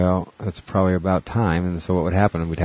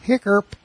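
hiccup; 13 semitones higher than usual. Real, not acted. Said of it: "I got the hiccups".

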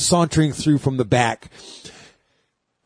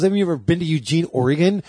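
fast, lightly voiced sassy drag queen; quick, a hint of sassy drag; 3 semitones higher than usual. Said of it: "in this persona of Roxy".

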